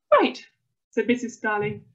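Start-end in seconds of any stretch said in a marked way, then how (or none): 0.1-0.5 high, loud, brisk command; bossy mum. A narrator's reading. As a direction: call the child to order. Bossy mum takes charge of son.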